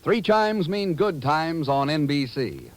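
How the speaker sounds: announcer. Acted. Network chime announcement, slow.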